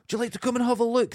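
high, fast, sing-song sales patter; market seller call. Retold or imitated. Retelling how market sellers call out, high chirpy patter. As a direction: pull passers-by in with a chirpy call. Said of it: "they're going".

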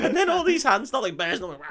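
can't keep a straight face; laughing. Real, not acted. Host cracks up retelling the sewer men, laughing.

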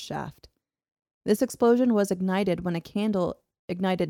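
measured documentary-style reading; story narration. A narrator's reading. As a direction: read the old account aloud, evenly paced. Narrates the tunnel disaster.

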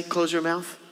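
curt parent order; mildly stern parent; blunt command. Retold or imitated. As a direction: snap it at a child. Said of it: "tempted to say".

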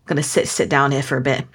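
quick, lightly voiced stern dad; a hint of a serious dad talking; imitating dad voice. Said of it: "the dad voice".

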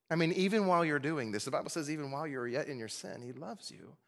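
hushed, caring reassurance; tender reassurance. Acted. Preacher as friend reassuring a brother in sin, tender. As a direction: soften right down as you reassure him. Continues the gentle appeal to friend.

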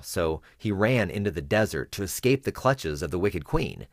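measured storyteller reading a Bible tale; story narration. Shown as a demonstration. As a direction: tell it like a children's story, steady and clear.

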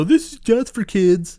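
high, slow mock disbelief; mocking incredulous. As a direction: parrot it with scorn. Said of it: "people look at this movie and go".

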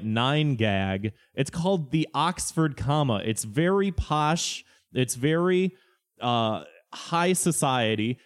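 lightly voiced snob lecturing; mock pompous explainer. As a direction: play the smug internet expert. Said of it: "people being like".

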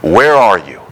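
slow, pleading lament with a rising cry on Oh Lord; mournful cry to God, slowed down and pleading. Retold or imitated. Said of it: "he's crying out to God".

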